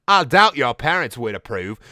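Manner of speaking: put-on Garnet in an amateur British accent; mock British character voice. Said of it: "do a British accent for Garnet".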